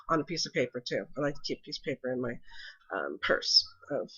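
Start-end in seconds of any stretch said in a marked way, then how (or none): 2.9-4.1 stuffy, blocked-nose voice; congested voice. Real, not acted. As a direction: talk through a congested nose. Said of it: "excuse my voice ... I'm a little congested".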